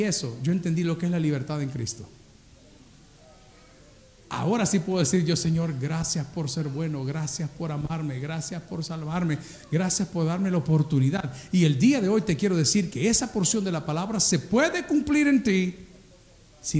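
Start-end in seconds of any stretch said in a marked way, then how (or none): 5.4-11.3 grateful prayer. Acted.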